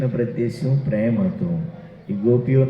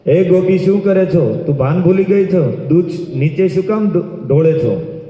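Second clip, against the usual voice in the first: mother-in-law's shout; 6 semitones higher than usual. Acted. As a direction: yell at the daughter-in-law from across the yard. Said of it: "બૂમ પાડી". (સાસુની ઊંચા અવાજે બૂમ)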